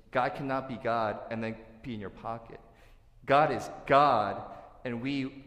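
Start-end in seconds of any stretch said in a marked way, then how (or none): 3.2-4.4 loud and slow, "God is God"; preaching at full force; emphatic declaration. Real, not acted. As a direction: plant each word like a verdict.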